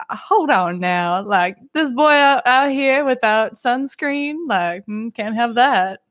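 lightly voiced cowboy drawl; Robin. Cartoon cowgirl objects to no sunscreen, light cowboy accent. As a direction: put on a hint of a Western twang. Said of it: "I can hear her Four Kids voice".

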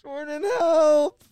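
long, loud drawn-out call for help. Pretend. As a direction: stretch out the call to another room. Calling for manager from floor.

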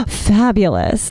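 drawn-out, showy praise; camp delight. Acted. Reacting to a celebrity's shared birthday, camp drawl. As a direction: stretch it out with flamboyant flair.

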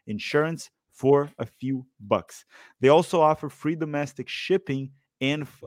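upbeat sponsor read. Acted. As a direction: pitch it like a radio ad. Sponsor read for Raycon earbuds.

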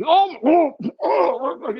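high, crying "oh" of horror; hammed-up gasp at a gruesome discovery; mock horror. Cops finding the killer's bodies, mock horrified cries. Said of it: "the face they make".

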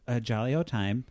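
put-on light British "jolly old time"; a hint of posh British, lightly done; British accent. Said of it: "That was my British".

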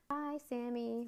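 cheerful shouted bye; calling goodbye. Acted. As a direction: call out as she leaves. Calling goodbye while leaving.

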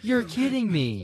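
slow fake surprise; put-on polite disbelief; customer service voice. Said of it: "your customer service voice".

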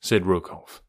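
menacing Rokoff. Acted. Villain Rokoff threatens Olga.

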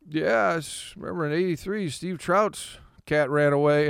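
a hint of Tony rambling about the past; Tony impression. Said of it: "And I would just be like".

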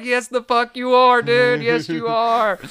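high, loud insisting yell; angry shout. Retold or imitated. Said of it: "Kevin Costner's like".

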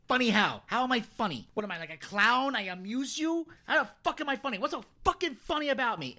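menacing Tommy confronting Henry; Joe Pesci menace. Retold or imitated. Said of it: "and he's like".

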